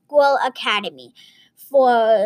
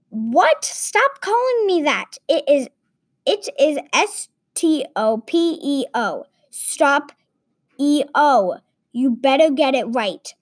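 annoyed villain; 3 semitones higher than usual. Acted.

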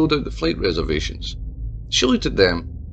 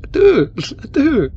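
higher, louder, laughing it off; nervous laughing protest; 13 semitones higher, 6 dB louder than usual. A narrator's reading. Mayor protests to Tabitha, laughing nervously. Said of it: "protested the mayor".

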